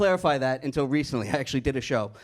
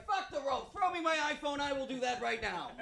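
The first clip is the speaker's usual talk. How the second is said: 1 mock sarcasm; 11 semitones higher, 11 dB quieter than usual. Sarcastic reply to buddy.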